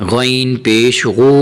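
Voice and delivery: slow spelling with a thick, full غین; heavy ghain. Shown as a demonstration. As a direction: make the gh of غین and غو heavy, drawn out. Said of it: "یہاں حرف غین کو موٹا کرے". (غین کو موٹا کر کے)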